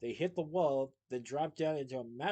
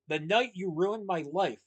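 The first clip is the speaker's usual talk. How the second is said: slow, grave and heavy; 3 semitones higher, 8 dB louder, slower than usual. A narrator's reading. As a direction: weigh every word gravely. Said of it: "very gravely he said".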